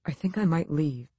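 whispered. A narrator's reading. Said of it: "he whispered".

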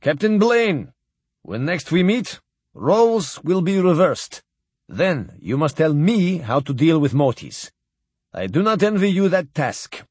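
lightly voiced stately admiral toasting; old Russian admiral. Admiral addressing Captain Blaine at the farewell dinner, lightly voiced and stately.

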